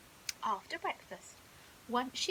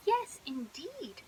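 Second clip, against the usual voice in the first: posh crocodile; 2 semitones higher, 4 dB louder, slower than usual. Acted. Crickle posh voice.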